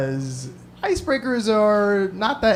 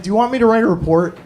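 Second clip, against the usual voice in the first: grudging offer, trailing softer; reluctant cop; 3 dB quieter than usual. Retold or imitated. Cop near end of shift offering report, reluctant. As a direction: offer it as if hoping for a no. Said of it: "He said it like I walked into T G I Fridays ten minutes before they closed".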